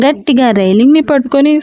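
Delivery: plain reading voice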